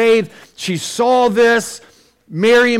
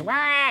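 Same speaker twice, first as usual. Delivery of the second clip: put-on baby wail; 7 semitones higher, 7 dB quieter than usual. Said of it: "the baby is".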